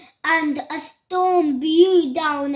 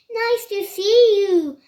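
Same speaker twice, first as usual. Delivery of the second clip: higher, lightly hooted welcome; mild hooted greeting; 5 semitones higher, 4 dB louder than usual. A narrator's reading. Duckbills greet a newcomer, hooting. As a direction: greet with a light, cheery hoot. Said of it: "and they hooted".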